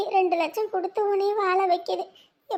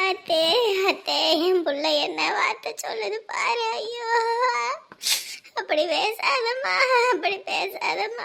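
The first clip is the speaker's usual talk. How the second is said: distraught wail. Acted. Mother begging her daughter not to talk of death, wailing.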